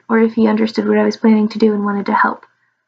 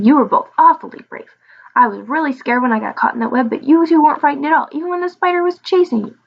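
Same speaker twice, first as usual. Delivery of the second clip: higher, lively dragon voice; admiring little dragon; 4 semitones higher than usual. Acted. Little dragon thanks his brave rescuers, admiring. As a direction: praise them in a high, impressed voice.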